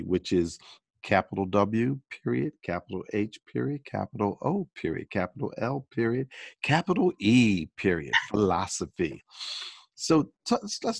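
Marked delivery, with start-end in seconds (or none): 1.0-9.2 dictating. Shown as a demonstration. Spelling out the acronym letter by letter.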